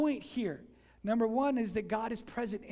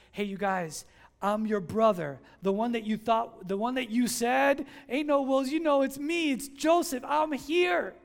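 louder, building announcement; emphatic reveal; 2 semitones higher, 7 dB louder than usual. Retold or imitated. Joseph telling his brothers he is here, louder. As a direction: declare who you are, raised and loud.

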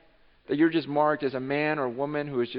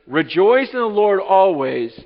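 loud slow verse; 4 semitones higher, 11 dB louder, slower than usual. Shown as a demonstration. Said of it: "I'm gonna say it again".

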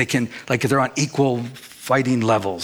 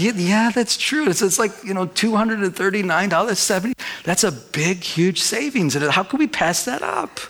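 higher-pitched playful imitation of his wife; mock-eager wife talking herself into it; higher, laughing impression of his wife; wife agreeing; 5 semitones higher than usual. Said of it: "she was like".

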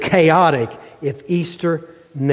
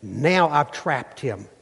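gloating spider; 2 semitones higher than usual. Acted. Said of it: "And he goes".

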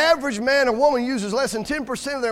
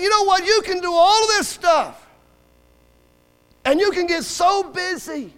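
high, emphatic preacher delivery; forceful preaching; 6 semitones higher, 4 dB louder than usual. Real, not acted. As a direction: drive it home from the pulpit.

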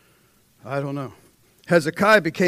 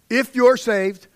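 slow, louder, higher "If you're saved"; emphatic preaching; 7 semitones higher, 7 dB louder, slower than usual. Acted. Preacher urging congregation toward the altar, loud and slow. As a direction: hammer each word out.

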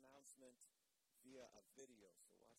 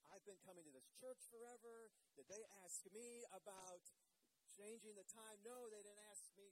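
mock-indignant complaint, a little raised; upset churchgoer; 4 semitones higher, 4 dB louder than usual. Pastor voicing upset latecomer over a silent video, mildly mock-indignant. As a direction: lightly act out an affronted regular. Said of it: "You can see he's still upset".

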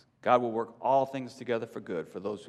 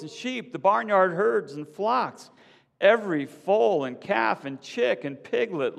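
higher, louder accusing shout; 9 semitones higher, 4 dB louder than usual. A narrator's reading. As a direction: demand answers from the beast. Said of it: "she shouts".

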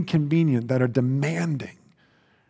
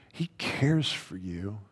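hushed, tender whisper; 5 semitones lower, 9 dB quieter, slower than usual. Real, not acted. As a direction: breathe it softly, like a secret comfort. Tender reassurance to the flock.

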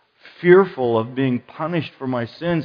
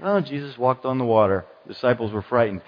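lower, unimpressed read-through; offhand reading; 3 semitones lower, 3 dB quieter, faster than usual. Acted. Preacher imitating readers who miss the impact, offhand. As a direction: skim it as if it were old news. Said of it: "and so we just read".

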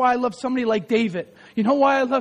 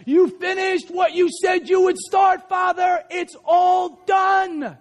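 shouting preacher; 6 semitones higher, much slower than usual. Real, not acted. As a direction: proclaim victory at the top of your voice.

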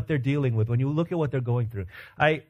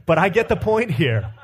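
laughing; 2 semitones higher, 5 dB louder than usual. Real, not acted.

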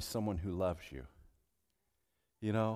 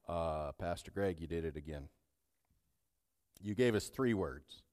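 lower, softer mock complaint; teasing congregant; 7 semitones lower, 3 dB quieter than usual. Congregant teasing the pastor, mock complaint. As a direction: grumble like a listener. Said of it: "imagined congregant objection".

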